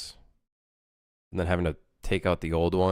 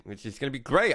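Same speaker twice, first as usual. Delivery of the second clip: wry rising sarcasm; dry sarcastic, tune rising; 5 semitones higher than usual. Real, not acted. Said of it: "I can't wait to do that for a full year".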